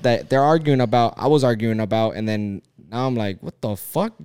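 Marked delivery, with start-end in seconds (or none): 3.4-4.1 much higher retold outburst; replaying his own stunned reaction; exasperated disbelief. Man retells catching himself in old fights, pitch jumping.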